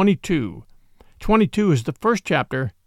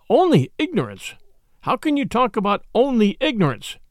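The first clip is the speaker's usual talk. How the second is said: higher, heated disbelief with stress on "can"; indignant outburst; 4 semitones higher than usual. Acted. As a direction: keep pressing, outraged. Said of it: "John's voice almost startled me".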